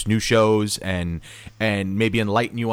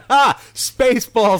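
excited; 11 semitones higher, 6 dB louder, slower than usual. Real, not acted. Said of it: "reference. Fantastic".

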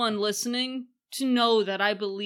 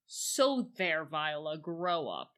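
dismissive queen; 3 semitones lower, 6 dB quieter than usual. Retold or imitated. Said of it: "And then she's like".

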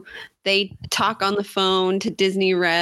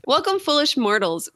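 booming demon lord; 6 semitones higher than usual. Acted. Haunted Mansion ghost host greeting.

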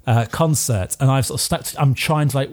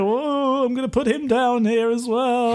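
mock surprise; 10 semitones higher than usual. Player fakes surprise at mouse.

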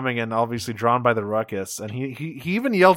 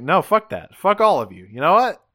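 higher-pitched mock outrage; retold indignant rant; 3 semitones higher, faster than usual. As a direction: act out someone lashing out at the whole group. Retold Hotshot quarrel with everyone.

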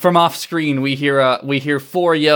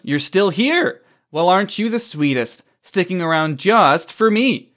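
higher, sugary mock sweetness; playful villain's gloat; teasing taunt; 4 semitones higher than usual. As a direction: coo it tauntingly, pitched up.

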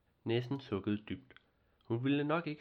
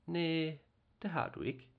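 put-on higher girl voice, mildly let down; a small girl's mild disappointment; a touch disappointed; 6 semitones higher than usual. Girl tells the nisse he has no tail, lightly disappointed. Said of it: "sagde hun lidt skuffet".

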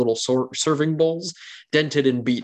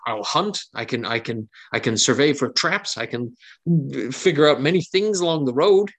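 put-on earnest young cook, pleading; 3 semitones higher than usual. NPC pleads to join.

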